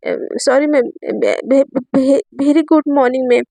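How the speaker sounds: slow, stuttering good morning; flustered stammer. Acted. Flustered student greeting her teacher, stuttering slowly. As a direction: fumble the greeting nervously.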